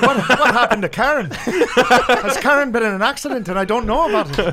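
high and loud, laughing through every word. Real, not acted. Teasing his friend about a made-up ex, laughing hard. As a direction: crack up while teasing your buddy.

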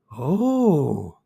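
long, swooping, astonished "Oh"; stunned. A narrator's reading. Miss Hayden takes in the unexpected money, stunned. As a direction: stretch it out in dawning amazement. Second gasp of the shocked heiress.

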